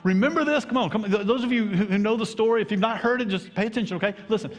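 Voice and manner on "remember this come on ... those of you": rousing call. Real, not acted. Pastor rouses congregation at communion.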